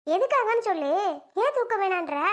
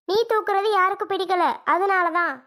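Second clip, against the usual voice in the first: louder, sharp comeback; cross and louder; angry retort; 3 semitones higher, 5 dB louder than usual. Acted. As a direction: fire the answer back loudly. Mother snaps back in quarrel.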